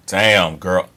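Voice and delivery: punchy imitated catcall; mock street come-on with a tooth smack; teeth-smacking catcall. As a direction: suck your teeth, then let it out. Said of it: "teeth smacking thing that I just did".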